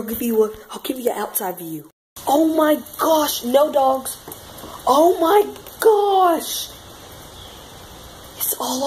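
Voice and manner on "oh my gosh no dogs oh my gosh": shocked exclamation. Real, not acted. Seeing fallen tree in yard.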